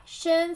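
申 high and level; flat tone. Shown as a demonstration. Teacher asking learners to read after her, level tone on 申. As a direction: hold 申 on one steady high pitch. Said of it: "flat tone".

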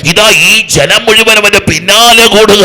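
building to a high, loud climax; fervent revival preacher, voice climbing; full-force preaching. Real, not acted. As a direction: cry it out to the whole crowd.

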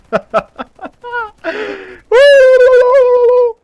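high, loud burst of laughter; shrieking laugh. Real, not acted. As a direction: cackle wildly. Explodes in laughter.

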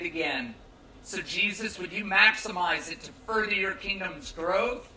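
steady, pleading pastor's prayer; earnest prayer. Real, not acted. Pastor praying over the campground crowd before reading Scripture, earnest and pleading. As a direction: pray it over the gathering, building toward the end.

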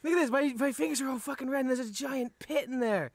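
talking with berry in mouth; words around a bitter bite; eating sour berry. Real, not acted. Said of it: "it looks like blood".

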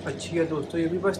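talking while chewing food; muffled words between bites; mouth full, chewing. Real, not acted. Seen 0: Takes bite at -5, still chewing early in labelled words.

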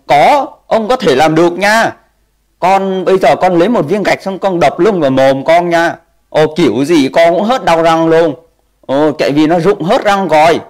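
lightly voiced Santa giving silly advice; mock grandpa Santa. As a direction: tease the kid as a jolly grandpa. Streamer as Santa answering viewer.

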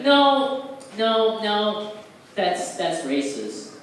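high objecting no, then slow racist; imitating woke girl. Woke girl at open mic objecting, imitated. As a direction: scold like an offended activist. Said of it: "she was like".

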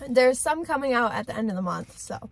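talking between bites of burger; speaking while chewing food; mouth full, chewing. Real, not acted. Seen 0: Bites burger just before; closed-mouth chewing, sandwich at mouth throughout.

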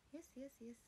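unvoiced quick yes yes yes; soft whispered agreement; whispered yeses. Real, not acted. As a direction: answer the chat in a hush. Whispered reply to chat.

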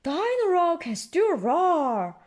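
bright, cheery storytelling mother. A narrator's reading. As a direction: lift the pitch to cheer a child. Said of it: "says Mummy Pig brightly".

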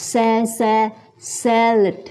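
"salad" with its first vowel like "air"; "sa, sa, salad", modelling the vowel carefully. Shown as a demonstration. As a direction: open "salad" on an "air" sound. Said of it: "sa เป็นเสียง air นะคะ".

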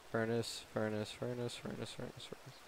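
fading to a whisper; trailing off softly; fading repetition. Acted. Repeats word, fading away.

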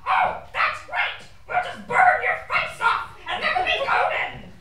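squeaky ventriloquist dummy. Acted. Dummy sarcastic idea.

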